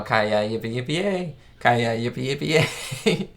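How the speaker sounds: imitated cowboy chant, rising on "yay"; cowboy cheer. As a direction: lightly mimic a group's yippee call. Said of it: "where they're all".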